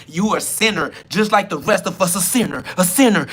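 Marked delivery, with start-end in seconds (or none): 2.1-3.2 sing-song taunt. Acted. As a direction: tease him like a playground bully. Taunting chant at him.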